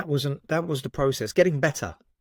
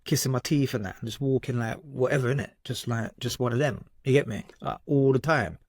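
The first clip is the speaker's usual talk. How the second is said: lightly imitated London roadman slang accent. Recalling his younger self to the host, lightly put-on roadman accent. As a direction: slip casually into a mild roadman accent. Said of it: "I was some kind of, like, roadman".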